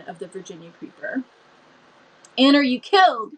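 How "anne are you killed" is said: put-on higher, louder frightened cry of a girl; frightened shriek. A narrator's reading. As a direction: call out in alarm to a fallen friend. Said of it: "shrieked Diana".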